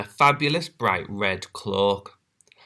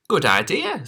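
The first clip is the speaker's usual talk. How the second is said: put-on high, bright girl voice; proud little girl; 8 semitones higher than usual. Little Red voice.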